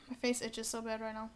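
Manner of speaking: whispering. Real, not acted. Aside while scratching itchy face.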